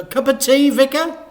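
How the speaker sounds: loud, high exasperated dad; loud annoyed dad voice; grumpy dad. Acted. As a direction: grumble it loudly. Dad's voice.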